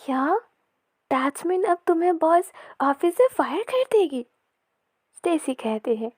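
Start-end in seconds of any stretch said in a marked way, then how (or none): 0.0-4.3 high-pitched, incredulous question; alarmed surprise. A narrator's reading. Malloy hears of the fight with the boss, alarmed. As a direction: react with mild shock, voice lifting. Friend shocked Vikki may be fired.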